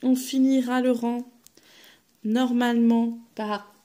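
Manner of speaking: talking through hiccups. Real, not acted. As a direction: speak while hiccuping. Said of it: "pardon, j'ai le hoquet".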